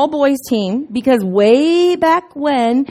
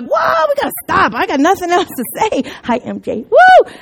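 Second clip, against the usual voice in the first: starstruck fan; 5 semitones higher than usual. Pretend. Preacher imagines meeting Michael Jordan, shouting starstruck. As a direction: lose it like a fan meeting a hero. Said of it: "Would I be like".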